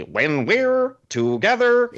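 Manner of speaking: high, stretched-out mock scream. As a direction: shriek the lyric slowly. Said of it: "screams them like that".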